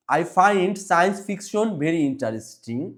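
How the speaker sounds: slow reading, science fiction stressed. Shown as a demonstration. Teacher models the sentence for pupils, slow with stress on science fiction. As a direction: lean on science fiction, slowly. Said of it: "সায়েন্স ফিকশনটি জোর দিয়ে পড়তে হবে".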